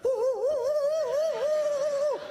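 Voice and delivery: high frantic squealing ooh-ooh; scared high squeal. Retold or imitated. Husband squealing as he runs from his wife. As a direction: squeal like a spooked man fleeing.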